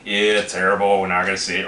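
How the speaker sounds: low, unimpressed mock verdict; dismissive verdict. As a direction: brush it off as a one-star dud. Acts out a one-star verdict.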